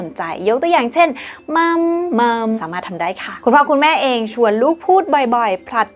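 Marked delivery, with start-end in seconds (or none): 1.6-2.5 "มัม มัม" in a musical up-and-down tune; sing-song high-low. Shown as a demonstration. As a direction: say "มัม มัม" with varied pitch, like music to a baby. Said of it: "ใช้เสียงสูงๆ ต่ำๆ".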